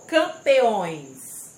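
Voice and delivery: "Campeões" loud, drawn out on ÕES; stressed syllable demo. Shown as a demonstration. Teacher showing pupils the tonic syllable, loud and stretched. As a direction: lean hard and long on the ÕES of "Campeões". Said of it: "Circule a sílaba tônica".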